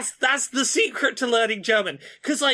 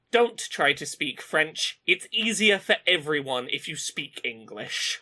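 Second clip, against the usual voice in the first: sneery waiter; 5 semitones lower than usual. Retold or imitated. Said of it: "this sneery person".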